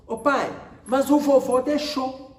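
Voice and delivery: put-on high-pitched little girl's objection; protesting child. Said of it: "ela falou assim". (imitando criança que protesta, voz aguda)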